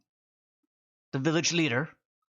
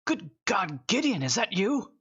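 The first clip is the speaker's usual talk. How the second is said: put-on old man greeting; 7 semitones higher than usual. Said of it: "he goes".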